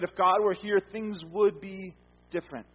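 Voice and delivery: doubting believer. Retold or imitated.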